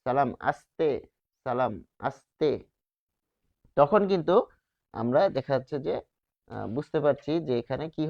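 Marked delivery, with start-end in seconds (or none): 0.1-2.5 সালাম আস্তে with dental s, a bit slow; dental s demo. Shown as a demonstration. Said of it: "যখন আমরা বলছি যে সালাম". (দন্ত স দিয়ে সালাম আস্তে)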